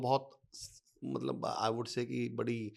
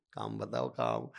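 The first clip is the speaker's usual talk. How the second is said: suspicious retort; 4 semitones lower, slower than usual. Retold or imitated. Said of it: "मैं पहली line".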